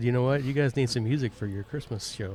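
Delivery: ordinary delivery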